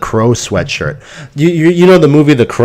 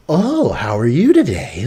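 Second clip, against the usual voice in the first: slow, put-on customer greeting; fake customer-service voice; 3 dB quieter, slower than usual. Son mocking dad with a customer, fake-ass voice. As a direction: mimic dad's fake-ass voice, dragging the words. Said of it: "Why is he talking like that?".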